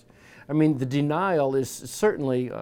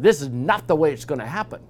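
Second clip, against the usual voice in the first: a touch of a scolding Peter; lightly voiced sharp rebuke of Jesus; mild mock rebuke; 2 semitones higher, 5 dB louder than usual. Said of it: "he just tore into Jesus".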